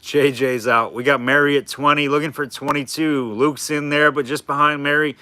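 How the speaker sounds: light auctioneer bid calling. Shown as a demonstration. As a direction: call out bids like an auctioneer. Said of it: "I'm doing the auctioneer voice".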